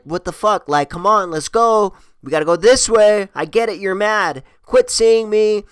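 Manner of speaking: high, loud exasperated pleading; worked-up retold shouting after a date; calling after her. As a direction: plead loudly with someone storming away. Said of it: "chasing her".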